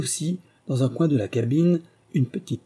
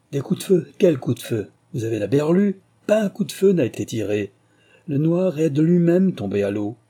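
a mildly louder, higher angry denial; growled denial; 4 semitones higher, 4 dB louder than usual. Acted. Mate denying the gunshots to Bertie, mildly angry. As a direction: snap back to brush off the question. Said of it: "et grogna".

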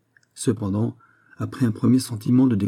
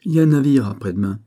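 fast, louder eager reply; quick policeman; 4 semitones higher, 5 dB louder, faster than usual. Acted. The policeman eagerly tells the judge about the ship, quick. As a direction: jump in eagerly.

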